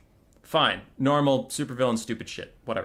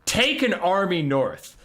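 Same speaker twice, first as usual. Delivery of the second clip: mock royal command. Malekith voiced giving orders.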